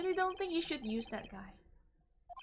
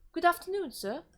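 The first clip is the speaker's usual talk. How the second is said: a louder, higher go at a British voice on "Good afternoon, sir"; British accent; 5 semitones higher, 4 dB louder than usual. Shown as a demonstration. Streamer redoes the bellboy's greeting in a British accent. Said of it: "I'm gonna try a British, um, voice".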